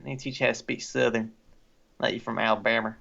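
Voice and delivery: lightly put-on American Southern accent; Southern accent demo. Shown as a demonstration. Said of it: "teach you the proper Southern".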